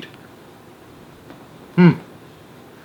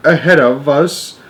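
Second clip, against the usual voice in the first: excited; 5 semitones higher, 4 dB louder than usual. Acted. Astronaut reports to Houston.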